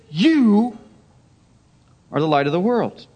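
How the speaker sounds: YOU set apart, then a pause; solemn declaration stressing YOU; emphatic YOU. Acted. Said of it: "It's emphatic".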